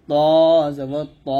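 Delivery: ত held long from upper teeth roots, then short; letter articulation demo. Shown as a demonstration. Teacher repeating for students, ত long then short. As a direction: stretch the first ত, cut the last one short. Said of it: "এরকম".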